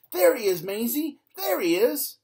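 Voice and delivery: high, loud pointing shout; excited cry. A narrator's reading. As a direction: call out to her, spotting the culprit. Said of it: "and cry".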